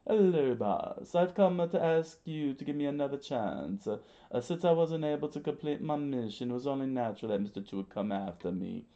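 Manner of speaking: high-voiced henchman, starting loud; pleading underling character. Voices Mister Three pleading to boss.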